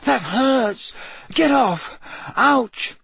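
high, pained yelps; pained protest. A narrator's reading. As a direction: protest sharply at being poked. Dream figure poked painfully.

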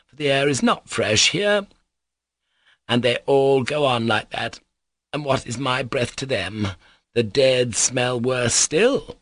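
a poor mad woman, wandering and plaintive; rambling mad mother. Acted. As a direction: play the aggrieved mother, pitch leaping up. Mad mother's rambling speech in story.

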